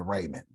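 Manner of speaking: "raiment" with a long ay; father's pronunciation. Retold or imitated. Quoting father's saying about God, remnant said as "raiment". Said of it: "he call it raiment".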